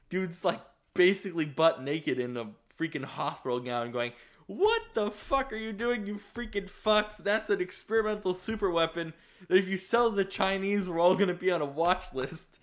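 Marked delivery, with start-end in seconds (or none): 4.5-12.6 higher-pitched mock tirade; angry scolding. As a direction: chew out the crew as the character. Retells Lester's angry scolding.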